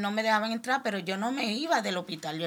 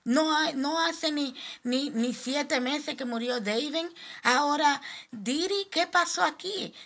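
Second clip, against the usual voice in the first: much higher, louder sobbing complaint; crying out; 8 semitones higher, 3 dB louder than usual. Retold or imitated. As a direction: grief spilling into a high cry. (queja llorando, aguda y fuerte)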